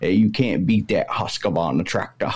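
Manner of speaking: put-on a lightly done Maine logger accent; an old timer bragging about a tractor; a hint of a thick Maine accent. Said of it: "they just talk like that all the time".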